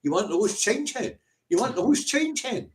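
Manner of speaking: high-pitched scoffing taunt; imitating scornful rich men; mocking rich Arabs. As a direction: toss out the offer in a high, mocking voice. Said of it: "all laughing at her and getting their wallets out and going".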